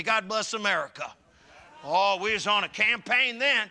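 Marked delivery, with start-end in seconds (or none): 0.0-1.1 call and response. Shown as a demonstration. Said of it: "say it with me".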